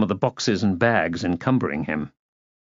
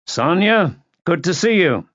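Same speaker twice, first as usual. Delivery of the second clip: higher-pitched greeting call; 7 semitones higher, 3 dB louder than usual. A narrator's reading. Man in hall to aunt upstairs, calling out. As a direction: call up to someone on the stairs. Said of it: "and called out".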